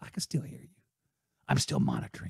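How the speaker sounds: hushed, breathy, softly threatening voice. Tell podcast listeners playing a guessing game that you can hear them, Liam Neeson voice. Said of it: "That's my Liam Neeson voice".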